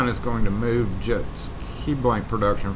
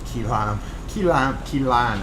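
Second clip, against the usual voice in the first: Southern accent; slower than usual. Shown as a demonstration. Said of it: "my southern accent made it sound like key lime".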